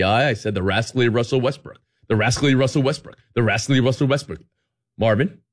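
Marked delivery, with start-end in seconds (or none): 0.5-4.4 "rascally Russell Westbrook" quick and crisp; fast warm-up drill. Retold or imitated. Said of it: "every morning before I did an appearance".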